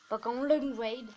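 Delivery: slow, self-mocking English accent on "Long Wade". Shown as a demonstration. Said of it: "Mon magnifique accent anglais". (accent anglais exagéré et lent sur « Long Wade »)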